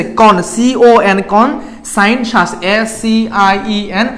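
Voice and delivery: very slow, syllable then letters; slow spelling by parts. Shown as a demonstration. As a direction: break the word down slowly for the class. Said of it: "ভেঙে ভেঙে পড়বা". (ধীরে ধীরে ভেঙে বানান)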